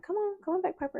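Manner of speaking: high coaxing call to a dog. Retold or imitated. Owner calling her runaway dog, high and coaxing. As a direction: lure her back, sing-song and high.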